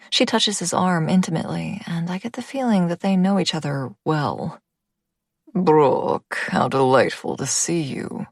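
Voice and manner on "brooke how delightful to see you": put-on jovial older man. A narrator's reading. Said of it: "Boris says".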